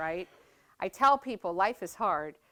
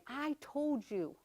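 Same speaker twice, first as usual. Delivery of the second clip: a hint of son coaching her, slow, with a loud end; lightly voiced son pushing her to fight back; mildly voiced Tommy egging her on; son's fighting voice; 6 semitones higher, 7 dB louder, slower than usual. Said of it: "Tommy was right up here saying".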